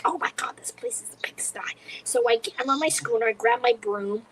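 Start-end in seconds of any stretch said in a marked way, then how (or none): 0.0-1.6 hushed, horrified whisper; whispered aside. Retold or imitated. Whispering to herself about the messy apartment. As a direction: breathe it under your breath in dismay. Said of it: "Meantime, I'm like".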